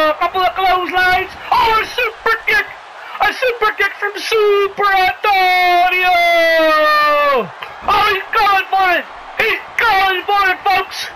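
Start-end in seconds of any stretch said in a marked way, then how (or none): 1.5-11.1 rising excitement with a stretched-out name; excited kick call. Acted. Commentator calls Super Antonio's super kick, excited. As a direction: cry out the kick and draw out the name.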